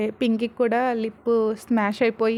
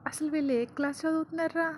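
quiet aside; 4 semitones higher, 9 dB quieter than usual. A narrator's reading. Rishi's aside to Shirish.

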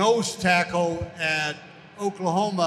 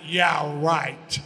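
sarcastic; 4 semitones lower than usual. Retold or imitated. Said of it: "I was so rude".

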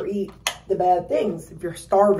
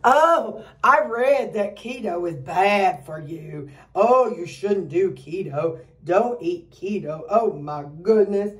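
judgy relative; slower than usual. Retold or imitated. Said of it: "a lot of people are judgy".

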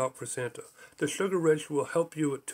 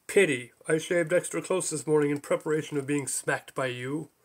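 gravelly American voice. Retold or imitated. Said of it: "Gravelly American voice".

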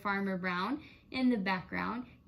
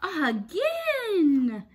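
higher, louder eager cry; excited cry; 7 semitones higher, 8 dB louder than usual. A narrator's reading. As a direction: shout it like kids begging for more. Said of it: "cried Cat and Dog and Pig and Duck".

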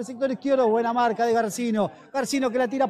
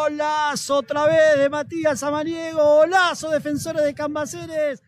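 excited goal call. Real, not acted.

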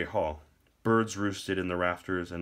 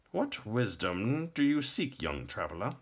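put-on intoning old king; 5 semitones higher than usual. A narrator's reading. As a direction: draw out the question grandly. Old king questions the visitor.

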